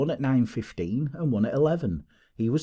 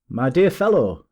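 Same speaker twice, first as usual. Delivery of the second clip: hearty cry, higher and louder; excited cry; 4 semitones higher, 7 dB louder than usual. A narrator's reading. Detective greeting his colleague in triumph, excited cry. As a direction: burst out with delighted force. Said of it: "he cried, wringing Holmes's unresponsive hand".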